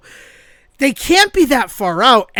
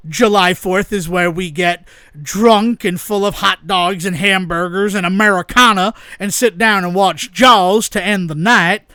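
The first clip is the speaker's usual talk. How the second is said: Southern drawl; 3 semitones lower than usual. Pretend. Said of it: "I'm not sure why I went Southern there".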